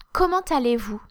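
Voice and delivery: "Comment allez-vous" falling at the end; falling question. Shown as a demonstration. Teacher giving how are you, falling intonation. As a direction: ask it with "vous" going down. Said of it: "Just falling intonation".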